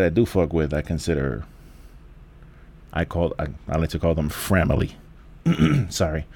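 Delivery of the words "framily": voice going out. Real, not acted. Podcaster naming close listeners, voice going out. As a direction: voice gives out on the word. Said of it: "my voice went out right when I said that".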